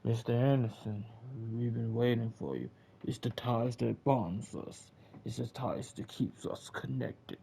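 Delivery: lightly voiced cold villain greeting; Agent Smith impression. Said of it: "Mister Smith walking up".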